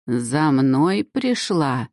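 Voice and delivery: very slow, strained gasping cry; forced out on a ragged breath. Acted. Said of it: "Надсадно вдохнула старуха".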